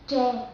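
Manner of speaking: loose Vietnamese TR, written "day" here; relaxed TR. Shown as a demonstration. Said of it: "the word day is much more relaxed".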